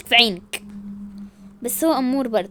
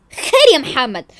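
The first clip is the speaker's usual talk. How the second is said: slow challenge; 4 dB louder than usual. Acted. Repeats challenge to Mohamed.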